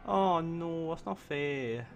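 high, loud cry of dismay. Real, not acted. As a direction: wail at the sudden loss. His leader dies in game.

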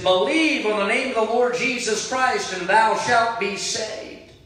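preacher calling to a drowning man; called out. Retold or imitated. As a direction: plead across the water, stretching the last words. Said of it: "again he said".

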